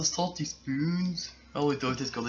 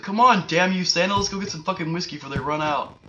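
excited shout; 5 semitones higher, 7 dB louder than usual. Pretend. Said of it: "They're just like".

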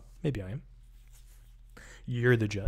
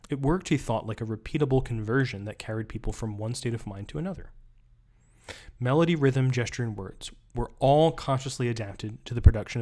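reading aloud. Acted. Reading the book passage aloud.

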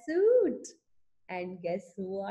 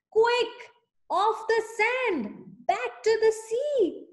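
urgent cry; 10 semitones higher than usual. Acted. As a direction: hurry the whale back to the sea. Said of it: "cried the snail".

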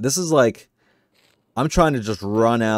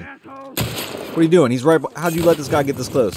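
raised-pitch, exasperated complaint; 6 semitones higher than usual. Real, not acted. Player scolding Ellie for letting an enemy get close, exasperated. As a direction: demand an explanation in exasperated disbelief. Berating game partner Ellie after being caught.

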